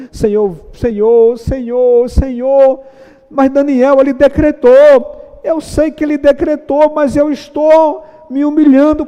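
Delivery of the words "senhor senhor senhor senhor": building fervent cry. Acted. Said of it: "Daniel ora".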